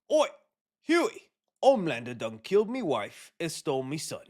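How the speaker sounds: put-on rough London Cockney accent, quoting a show character; Cockney accent, like a hard London bloke. Quoting Butcher from The Boys.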